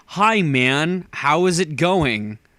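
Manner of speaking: put-on very slow, drawled surfer dude accent. Imitating British friends doing a funny American accent: put-on surfer dude accent. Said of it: "Like Or like a surfer dude".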